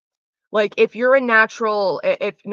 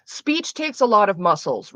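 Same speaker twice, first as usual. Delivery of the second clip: whispered aside. Real, not acted. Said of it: "sighs before".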